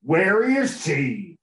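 slow, drawn-out cowboy-ish Batman. Pretend. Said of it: "You sound like a fucking cowboy".

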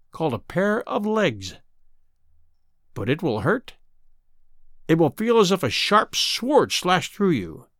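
sinister, taunting sea witch. Acted. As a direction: menace her, the wicked witch. Sea witch in fairy tale.

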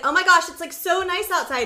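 high-pitched excited gush; retold California-girl enthusiasm. Daughter gushing to dad about the weather, excited.

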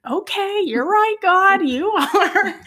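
high, laughing surrender; laughing as she gives in to God; laughing reply. Retold or imitated. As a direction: giggle out a high okay.

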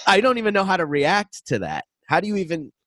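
lightly voiced stunned kid; stunned teen self. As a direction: say it like you can't process it. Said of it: "And I was like".

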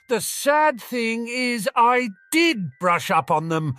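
calling back. Acted. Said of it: "Harry called back".

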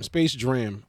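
"Dram" with an R after the first consonant; R slipped into Jam. Shown as a demonstration. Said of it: "a fucking R in jam".

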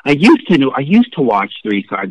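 "used" punched with a jump in pitch; stress on used. Retold or imitated. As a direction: lean pointedly on "used", quoting others. Mocks viewers' past-tense remark.

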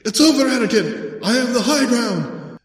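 hammed-up triumphant cry; Obi-Wan impression. Obi-Wan shouting down at Anakin, in a squeaky mock triumph. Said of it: "he's like".

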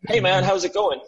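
lightly put-on Midwestern greeting; hint of a teasing Midwestern impersonation; mock Midwestern accent. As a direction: poke fun with a Midwestern American hello. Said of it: "Midwestern mocking impersonation right there".

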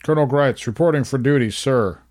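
barked military check-in, snapping to attention; crisp loud soldier report. Pretend. Mock military report on phone.

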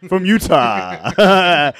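drawn-out laughing echo. Real, not acted. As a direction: stretch it out while laughing. Laughing repeat of joke.

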